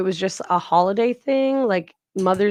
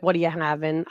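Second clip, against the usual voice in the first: uninterested server; 5 semitones lower, 4 dB quieter than usual. Retold or imitated. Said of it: "just be like".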